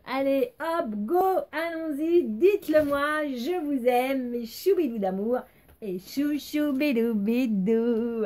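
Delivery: high slow cheerful sign-off; excited. Real, not acted. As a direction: gush at the fans.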